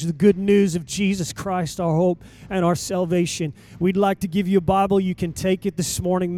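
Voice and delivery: ordinary talk, nothing marked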